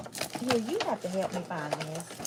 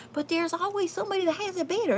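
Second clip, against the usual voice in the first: laughing; 12 semitones higher, faster than usual. Real, not acted. Laughing through the line.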